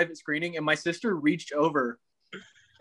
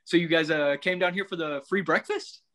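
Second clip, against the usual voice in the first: imitating a laid-back guy's greeting; guy's way of talking. Retelling how a guy greeted her, mildly imitated. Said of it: "the exact way he said it was".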